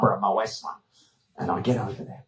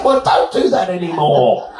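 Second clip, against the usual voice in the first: mock stern order; 8 semitones higher than usual. Ordering her, heard shout.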